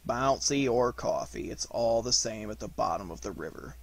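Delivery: low, resigned donkey; weary, downbeat retort; gloomy Eeyore. Acted.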